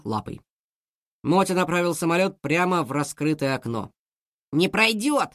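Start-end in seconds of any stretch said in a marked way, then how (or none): 4.5-5.3 frightened. Acted. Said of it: "испугался Ворчун".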